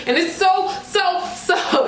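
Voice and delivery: high, breathless gushing; can barely get it out; overexcited. Real, not acted. Gushing to viewers until she must calm down. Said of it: "let me calm down".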